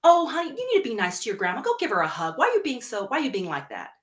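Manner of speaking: nagging parent. Retold or imitated. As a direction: pressure the child sweetly but firmly. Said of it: "Or when they say".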